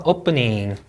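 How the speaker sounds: 'Opening' with the beat on O; first-syllable stress. Shown as a demonstration. Teacher drilling word stress, first syllable strong. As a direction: hit the O of 'Opening', let the rest fall. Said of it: "이름절 강세".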